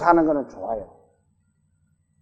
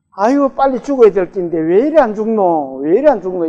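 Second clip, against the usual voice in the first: Gyeongsang dialect. Retold or imitated. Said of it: "경상도 말로".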